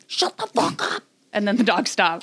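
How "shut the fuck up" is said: very high-pitched mock yell without real volume; imitated yell. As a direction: imitate someone yelling out the door, pitched way up. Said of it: "yells out the door".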